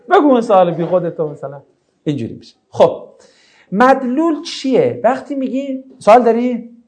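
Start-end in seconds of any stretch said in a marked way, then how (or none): 0.1-1.3 dismissive, a little louder on بگو; mock rude order. Shown as a demonstration. Teacher repeating the rude reply for the class, mock dismissive. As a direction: say it like a grudging brush-off.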